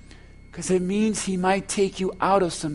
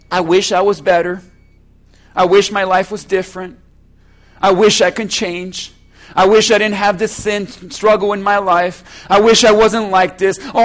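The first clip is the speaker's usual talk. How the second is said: mock the pleading churchgoer, mildly; whiny beggar; 4 semitones higher, 10 dB louder than usual. Preacher mimicking a congregant begging Jesus, lightly whining. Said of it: "sit here and say".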